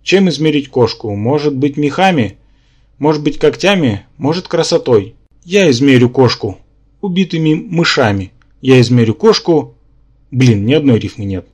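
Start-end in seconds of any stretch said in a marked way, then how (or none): 0.0-9.7 mock-poetic recitation; measured recital with lifted questions; declaiming. A narrator's reading. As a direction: declaim verse to drown out a chatterer. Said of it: "начал декламировать".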